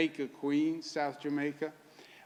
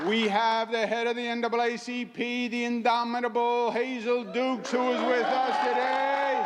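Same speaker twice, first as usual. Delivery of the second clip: raised, ringing podium introduction; rousing introduction; 5 semitones higher, 3 dB louder than usual. Real, not acted. Speaker presenting an honored guest to the crowd, rousing introduction. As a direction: announce the honored guest with a higher, building voice.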